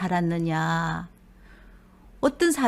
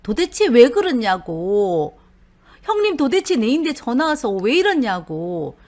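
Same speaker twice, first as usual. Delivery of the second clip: indignant protest; 5 dB louder than usual. Retold or imitated. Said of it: "억울할 거 아니에요".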